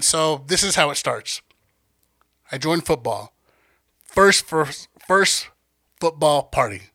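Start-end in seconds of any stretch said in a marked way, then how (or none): 4.0-6.8 stumbling over words. Real, not acted. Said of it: "That's a tongue twister".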